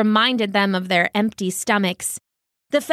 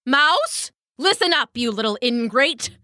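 indignant bird calling out, pitched up; bossy dove; 3 semitones higher than usual. Acted. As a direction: summon the culprit with affronted authority. Dove confronts mouse.

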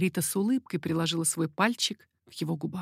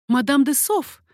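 loud, higher startled cry of the name; exclaiming; 6 semitones higher, 7 dB louder, slower than usual. A narrator's reading. Margarita recoils at the baroness at the secret door, exclaiming loudly. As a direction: recoil from the sight of a rival. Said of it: "воскликнула она".

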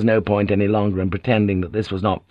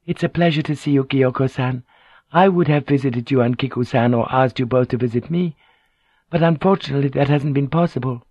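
higher, politely evasive voice; lightly voiced formal noblewoman; courteous lady; 5 semitones higher than usual. Lady excusing herself to Kyoko, lightly courteous.

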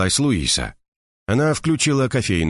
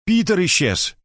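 shouting indoors; 11 semitones higher than usual. A narrator's reading. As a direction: shout the news into the house. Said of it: "крикнула Луиса". (Луиса кричит Эдди в глубину дома)

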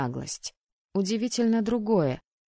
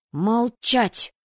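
loud, raised command to silence; sharp, higher-pitched outburst; barked order; 4 semitones higher, 5 dB louder than usual. A narrator's reading. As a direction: bark it at bickering partners. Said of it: "рявкнула я".

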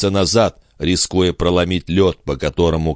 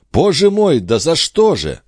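astonished; 10 semitones higher, 3 dB louder than usual. A narrator's reading. Charny astonished at thanks.

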